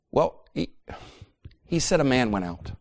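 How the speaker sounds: halting, subdued admission; hesitant recall. Acted. Husband reporting the parable to wife, hesitant. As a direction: offer it reluctantly after a pause.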